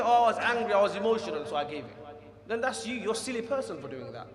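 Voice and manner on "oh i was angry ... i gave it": imitating a hotheaded husband's excuse; mock excuse. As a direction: play the silly excuse-maker with a sneer. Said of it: "Don't come and say".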